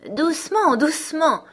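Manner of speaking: high, loud crow calming her down; a crow squawking "doucement" to settle her; the crow, high and loud, urging a clinging girl to calm down. A narrator's reading. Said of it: "fit la corneille".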